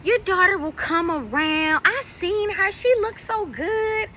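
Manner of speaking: a hint of the acquaintance's know-it-all comfort; imitating Treese consoling. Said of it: "and she's like".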